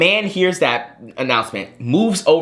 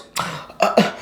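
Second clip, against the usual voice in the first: mock gasp of disbelief; sharp imitated gasp; retold offended gasp; 7 semitones higher than usual. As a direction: gasp like an affronted stranger.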